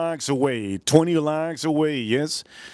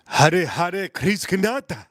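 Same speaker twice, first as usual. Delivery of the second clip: quoting a viewer; 4 semitones higher, much slower than usual. Retold or imitated. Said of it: "A M says".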